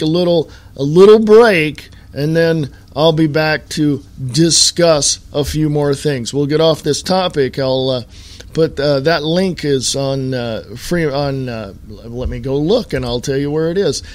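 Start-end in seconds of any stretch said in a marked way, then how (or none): none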